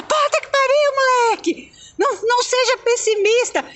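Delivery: mild mock outburst at the kid; mock swearing mother. Retelling a scared mom cursing at her son, mock snap.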